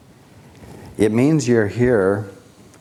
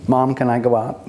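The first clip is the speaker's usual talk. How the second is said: lightly voiced child, higher pitch; child asking permission; 4 semitones higher than usual. Child to mom asking to go out, lightly voiced pleading lilt.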